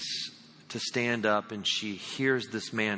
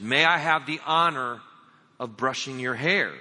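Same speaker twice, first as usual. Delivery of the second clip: a little louder; 4 dB louder than usual. Acted. Woman repeating her offer louder to the deaf man. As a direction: raise the voice so he can hear. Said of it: "she said a little bit louder".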